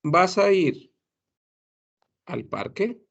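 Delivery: "¿Vas a ir al parque?" run together as one flowing phrase; linked casual question. Shown as a demonstration. Teacher showing everyday linked speech. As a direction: glue the words into one breath.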